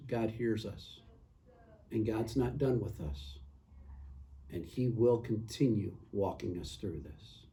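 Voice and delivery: sincere closing prayer. Real, not acted.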